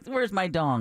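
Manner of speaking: put-on Scottish accent. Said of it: "how Deb's Scottish is".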